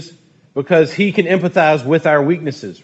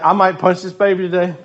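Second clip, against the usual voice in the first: laughing joke; 4 semitones higher than usual. Real, not acted. Joking exasperated line.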